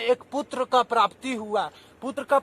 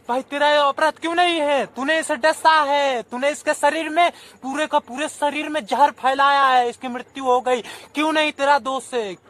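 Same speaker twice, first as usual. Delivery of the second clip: higher, louder scolding accusation; accusing scold; 3 semitones higher, 3 dB louder than usual. Acted. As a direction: scold the snake for the poison. Snake charmer accuses snake.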